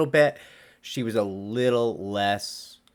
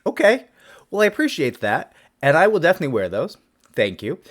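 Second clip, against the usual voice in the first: mock polite gratitude; 7 semitones higher, 6 dB louder than usual. His reply to the client, retold.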